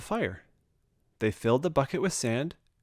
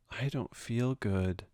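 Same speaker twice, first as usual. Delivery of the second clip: sad and small; 6 dB quieter, slower than usual. A narrator's reading. Homesick Bear at night.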